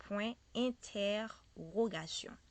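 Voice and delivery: "Point interrogation" slowly, syllable by syllable; teacher's slow model of "Point interrogation"; French pronunciation demo. Shown as a demonstration. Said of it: "This one we say".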